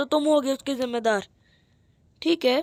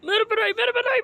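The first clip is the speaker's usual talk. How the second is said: higher whine; 7 semitones higher than usual. Acted. Character whines repeatedly.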